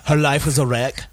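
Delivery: laughs through the punchline; giggling as he tells the joke; laughing. Acted. Friend tells a dark joke to the group, laughing.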